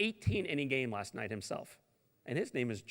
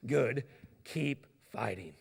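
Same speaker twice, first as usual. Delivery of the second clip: gentle encouragement; slower than usual. Retold or imitated. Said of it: "booming voice".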